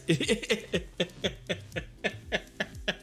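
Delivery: laughter. Real, not acted. Storyteller remembering the salt for the canning, laughing. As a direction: laugh it out at your own tale.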